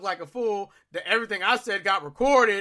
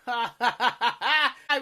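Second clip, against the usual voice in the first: mocking laughter. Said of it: "Genkai is like".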